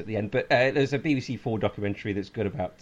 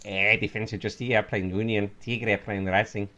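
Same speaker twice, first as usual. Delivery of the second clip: mock Speedy Gonzalez; 3 semitones lower than usual. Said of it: "let me try again my Speedy Gonzalez voice".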